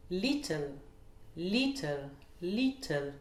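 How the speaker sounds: LIT stressed in "Little", then falling; first-syllable stress. Shown as a demonstration. Teacher models a common word, stress on LIT in "Little". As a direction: hit the start: LIT-tle. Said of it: "l'accentuation sur la première syllabe".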